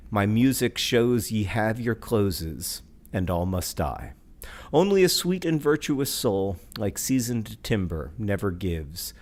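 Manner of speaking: slow, measured verse with falling line ends; grave, unhurried recital; poetry reading. Acted. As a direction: read each stanza like a solemn refrain. Reads a poem aloud.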